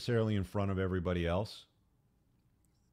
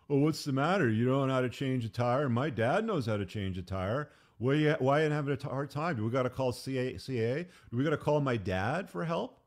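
high, loud mocking whine of a nagging wife; mock the wife's belittling nag, pitched up; 5 semitones higher, 4 dB louder than usual. Wife mocking her husband at the flat tire, high whiny mock nag. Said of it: "And she's standing there behind you".

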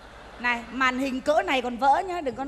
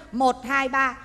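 slow count; 3 semitones lower, much slower than usual. Shown as a demonstration. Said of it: "cứ đếm ba bước chân".

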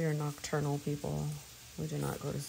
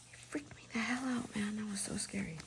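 whispered, quick, still spooked; shaken whisper; 4 semitones higher, 6 dB quieter, faster than usual. Real, not acted. Telling viewers her son startled her, in a quick whisper. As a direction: whisper it like you just got a fright.

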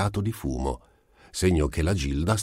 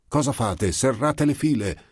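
officers rally the ranks; thundering order; 8 semitones higher than usual. Acted. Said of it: "tuonarono gli ufficiali".

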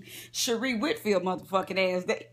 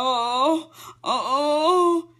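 mock hollering in pain; 5 semitones higher, much slower than usual. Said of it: "Bitch was laying here hollering".

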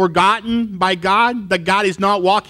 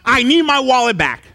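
desperate plea; 8 semitones higher than usual. Retold or imitated. Young man begging God for his lost wallet, high and desperate. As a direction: beg God, voice straining high. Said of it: "and I told".

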